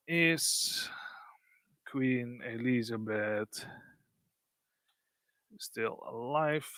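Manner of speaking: very slow, halting read as you type; typing aloud. Real, not acted. Presenter re-asking the bot the same question, slow and spaced out. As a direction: stretch the words out with long gaps between.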